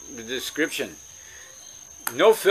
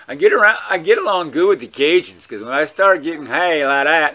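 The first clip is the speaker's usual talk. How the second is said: Cajun accent; 5 dB louder than usual. Shown as a demonstration. Telling how he gets along with Cajuns, in Cajun accent. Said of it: "I start talking like that".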